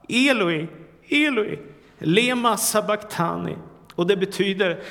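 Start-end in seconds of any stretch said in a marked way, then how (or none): 0.1-0.7 raised, pleading cry from the cross; anguished cry. Acted. Preacher voicing Jesus on the cross, first anguished cry. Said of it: "Då ropar han". 1.1-1.6 much higher, desperate second cry; rising anguished cry. Acted. Preacher voicing Jesus on the cross, higher desperate cry. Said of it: "Då ropar han". 2.0-3.6 anguished cry. Acted. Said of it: "Då ropar han".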